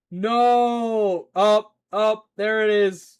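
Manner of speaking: loud, high protest; shouted objection. Real, not acted. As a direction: cry out at being disobeyed. Calling out at misbehaviour.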